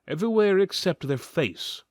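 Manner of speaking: plain reading voice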